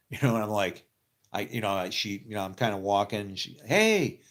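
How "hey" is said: much higher, loud call across the set. Retold or imitated. Makeup lady calling across the set, high and loud. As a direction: shout hey to get his attention.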